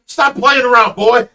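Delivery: loud, high dismissive dad; dad scolding son to quit fooling; mock scolding. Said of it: "I'm like".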